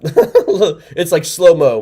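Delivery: laughing through the words, slowly. Real, not acted. Host laughing at a caller's slowed-down audio, laughing. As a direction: crack up while describing the call. Laughing at a garbled phone call.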